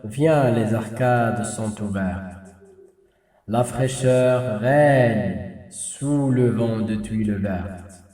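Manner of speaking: spoken verse with deliberate pauses between lines; expressive poem reading. Shown as a demonstration. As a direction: recite it expressively, lingering on the key words. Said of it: "on passe à une lecture expressive".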